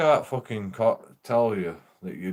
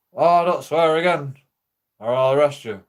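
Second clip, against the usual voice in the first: higher, louder cop warning; stern cop warning; 4 semitones higher, 6 dB louder than usual. Retold or imitated. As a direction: warn him like a cop. Voicing policeman warning him.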